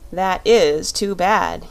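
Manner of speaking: slow, a touch of gravity; grave. Acted. Shaggy Man answers the lost girl, slow and lightly grave. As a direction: say it slowly, mildly sorry. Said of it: "shaking his shaggy head gravely".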